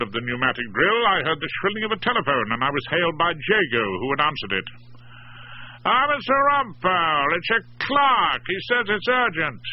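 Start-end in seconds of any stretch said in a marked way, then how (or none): 5.9-9.6 Jago's voice. A narrator's reading. Jago answers phone at party.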